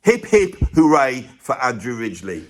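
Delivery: loud mock cheer; hearty hip hip hooray. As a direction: lead a cheer for a singer. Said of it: "I like the hip, hip, hoorays".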